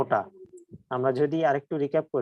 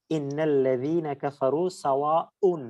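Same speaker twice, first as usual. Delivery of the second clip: slow recitation; slower than usual. Shown as a demonstration. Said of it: "সূরা বাকারার ছয় নম্বর আয়াত".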